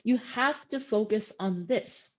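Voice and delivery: slowed, each word set apart for weight; "You have to focus on this," said slowly with a deliberate weight; emphatic pause demo. Shown as a demonstration. Coach showing a classmate how to use emphasis, slow and deliberate. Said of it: "then this is how you add more emphasis".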